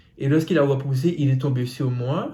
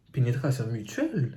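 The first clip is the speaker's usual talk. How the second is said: "Pénétration mutuelle?" repeated softer with a falling, baffled tone; puzzled repeat; 6 dB quieter than usual. Real, not acted. Rereading a viewer's strange phrase, quietly baffled. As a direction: echo the words back, quietly confused. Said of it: "C'est quoi ça encore?".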